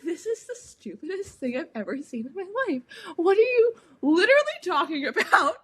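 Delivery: mock outrage dissolving into laughs; laughing in disbelief. Kid telling dad how the book felt, laughing indignantly.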